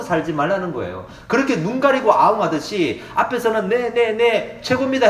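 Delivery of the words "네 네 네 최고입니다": higher, eager yes-man fawning; hammed-up sycophant; mock flattery. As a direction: suck up to the boss. Flatterer to boss's face.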